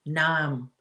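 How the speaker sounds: "Nam" for Norm, R dropped in Boston style; Boston-style open vowel in "Nam"; attempted Boston accent. Shown as a demonstration. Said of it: "Am I saying that right?".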